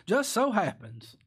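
high, slow sarcastic drawl. Acted. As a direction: say it dripping with irony. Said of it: "That's sarcasm".

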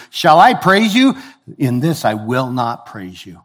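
indignant scripture quote, punching key words; angry rebuke. Retold or imitated. Preacher quoting Paul rebuking the church, angry. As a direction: voice Paul's anger with emphatic, rising questions. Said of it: "He is angry".

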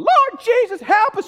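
high, loud imitation of a terrified passenger; mock panicked scream. Woman on a turbulent plane, imitated screaming prayer. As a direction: cry out for rescue, hammed up. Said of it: "she's screaming".

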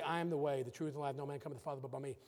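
low, soft voice of Jesus speaking with authority; quiet, grave voice of Jesus. Acted. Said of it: "Jesus answers him again with that same authority".

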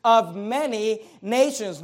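"of many nations" slowed and weighted word by word; emphasis. Shown as a demonstration. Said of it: "notice the emphasis".

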